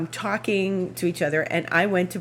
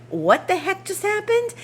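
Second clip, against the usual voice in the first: stunned question; 13 semitones higher than usual. Retold or imitated. Stunned after the splat.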